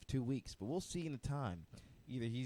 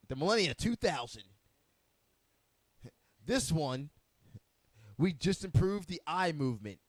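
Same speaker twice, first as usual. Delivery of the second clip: product demo announcer; 5 dB louder than usual. Pretend. Presenting robot Melania like product.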